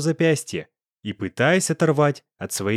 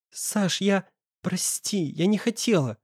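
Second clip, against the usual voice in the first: higher, soft, halting plea; frightened stammer; 6 semitones higher, 4 dB quieter, slower than usual. A narrator's reading. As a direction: stammer «я не хотела» as a scared excuse. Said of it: "Ещё сильнее заикаясь". (испуганно оправдываясь, заикаясь)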